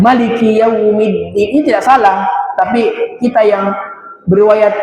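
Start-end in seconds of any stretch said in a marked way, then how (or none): 0.0-1.3 Maliki with a short first vowel, "ma-liki"; short ma variant. Shown as a demonstration. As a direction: recite Maliki without lengthening the mim. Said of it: "Ada yang mengatakan".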